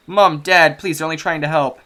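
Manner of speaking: a daughter begging Mom and Dad to stop; pleading girl. Acted.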